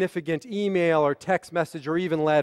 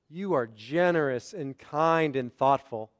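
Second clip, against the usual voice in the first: "You are generous" begun as a fresh sentence, falling after "thoughtful"; complimenting phrasing; 3 semitones lower, 3 dB quieter than usual. Shown as a demonstration. Rabbi reading Jane's praise of John, adoring phrasing. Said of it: "the periods went and the emphasis went".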